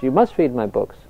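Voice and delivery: retold firm command, stress on "must"; forceful. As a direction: imitate an insistent teacher's order. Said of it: "says with equal force".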